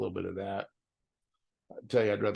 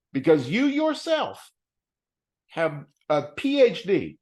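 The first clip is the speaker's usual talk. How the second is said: mocking self-scold; 5 semitones higher, 5 dB louder, slower than usual. Mocking himself in quoted inner talk.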